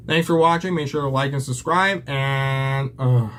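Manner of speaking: breathless, panting between words; winded, gasping through the sign-off; out of breath. Real, not acted. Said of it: "I'm so out of breath right now".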